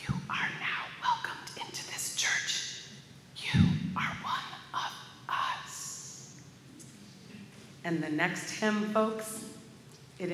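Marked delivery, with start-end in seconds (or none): 0.1-6.3 slow, deliberate stage whisper; hushed, measured words of welcome. Acted. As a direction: whisper it softly to the person beside you. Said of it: "she whispered again".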